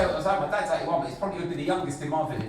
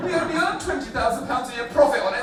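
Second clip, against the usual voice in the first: high, fast indignant excuse; mock farmer; 7 semitones higher, 4 dB louder, faster than usual. Comic mocks farmer pleading small profit, aggrieved. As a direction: rattle out the grievance, pitched up.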